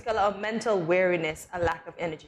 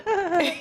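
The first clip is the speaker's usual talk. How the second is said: higher-pitched mock baby giggle; imitated baby laugh; 6 semitones higher than usual. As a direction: attempt a tickled baby's giggle. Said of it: "tickle them again for them to do the".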